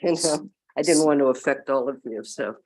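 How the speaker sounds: muffled behind a mask; through a face mask. Real, not acted. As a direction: speak through a cloth mask. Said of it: "Excuse the mask".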